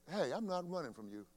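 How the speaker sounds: calm, firm refusal to back down; defiant standoff. Pretend. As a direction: stand your ground against the bully. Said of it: "and you say".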